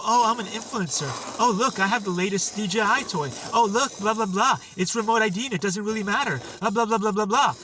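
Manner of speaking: lightly mocking imitation of an influencer; dismissive mock chatter. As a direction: parody a self-satisfied show-off, a little exaggerated. Mocking would-be cool drone influencers.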